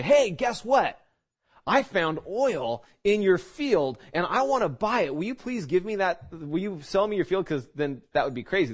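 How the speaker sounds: pitching the deal a little too keen; voicing a sly buyer. Preacher playing a buyer wanting the field, eager.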